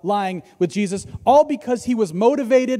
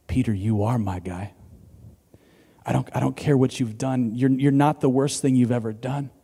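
tender reassurance; 7 semitones lower than usual. Acted. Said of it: "he would have heard things like".

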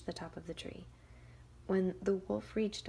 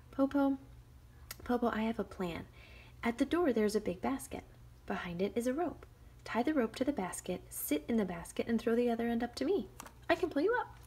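loud, higher call; 5 semitones higher, 5 dB louder than usual. Acted. Shang calling her plan to the wolf. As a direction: sell the plan eagerly. Girl proposes plan from tree.

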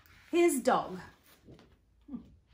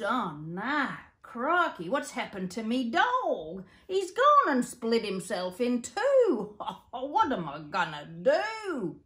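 put-on Old Joe dismayed; 3 semitones higher, 4 dB louder than usual. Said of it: "Old Joe couldn't believe his eyes".

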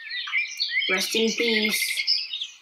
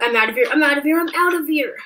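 loud, rising panic; panicked; 4 semitones higher, 3 dB louder, faster than usual. Acted. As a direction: bolt away in fright. Fleeing the monster.

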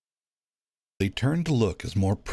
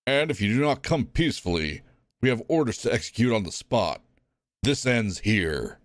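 stern warden threat; 4 semitones higher than usual. Acted. Warden warning the prisoners, lightly voiced stern. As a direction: make the threat final.

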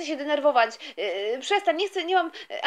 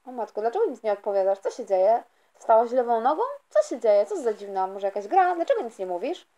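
lower, puzzled dad asking what's wrong; father's voice; 5 semitones lower than usual. Acted. Father puzzled by his silent daughter, lower voice. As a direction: play the baffled father.

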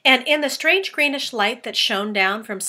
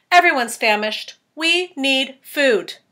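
hungry centipede; 5 semitones higher, 7 dB louder, slower than usual. Acted. Centipede demanding food.

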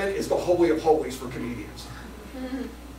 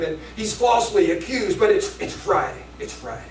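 preaching. Retold or imitated.

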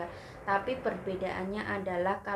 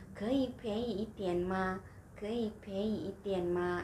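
slow haggling; slower than usual. Shown as a demonstration. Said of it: "bisa gunakan seperti ini".

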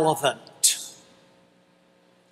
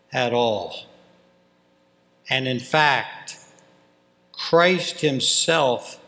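measured reading with weighty pauses; solemn scripture reading; 4 semitones lower, 4 dB quieter than usual. Acted. Pastor reading God's holy word to the congregation, solemn and measured. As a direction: read the verses reverently, phrase by phrase.

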